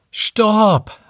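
high sudden call to stop; shout. Acted. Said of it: "rief Remi".

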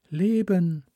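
drawn-out alien calm; alien sea voice. Acted. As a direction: speak as a vast ocean mind, unhurried. Alien sea mind speaks.

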